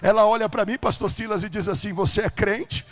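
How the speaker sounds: thundering pulpit storytelling; full-force preaching. Acted. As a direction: drive every phrase out at full volume.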